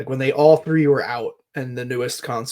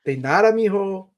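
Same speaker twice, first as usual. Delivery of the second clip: deli guy voice; 7 semitones higher than usual. Pretend.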